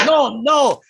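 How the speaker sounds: Russian insurgent badly posing as a Southerner; fake Southern accent, Russian underneath. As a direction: protest innocence in a put-on Russian accent. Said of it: "they would try to fake one".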